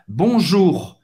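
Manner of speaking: "Bonjour" with the final R sounded; French model of "Bonjour", R audible at the end. Shown as a demonstration. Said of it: "Só trabalhar esse R no final".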